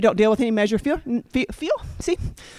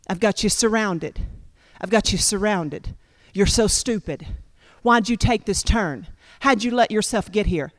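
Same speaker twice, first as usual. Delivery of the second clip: enemy's taunting voice; 4 semitones lower than usual. Acted. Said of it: "all you hear is his voice".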